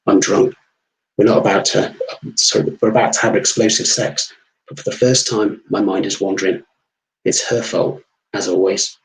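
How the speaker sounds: measured first-person story reading; story narration. A narrator's reading. Narrator confides his drunken night at the bar, story narration. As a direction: read it as a downbeat bar-room tale. Reads own story aloud.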